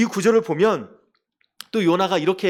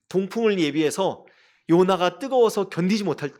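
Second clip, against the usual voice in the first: ordinary talk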